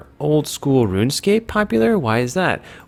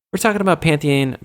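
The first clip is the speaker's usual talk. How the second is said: "Pantheon" in a higher, livelier announcing tone; lifted pitch falling through "Pantheon"; higher first take; 5 semitones higher than usual. Real, not acted. Says it, then repeats it lower.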